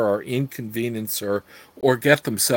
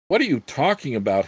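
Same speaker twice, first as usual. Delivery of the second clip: demanding; faster than usual. Acted. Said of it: "he demanded".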